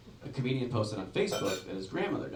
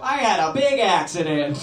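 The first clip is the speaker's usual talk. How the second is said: louder, slow, laughing confession; sheepish confession; 6 semitones higher, 10 dB louder, slower than usual. Retold or imitated. Comic confesses to cop, slow laughing. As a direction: own up through the laughter.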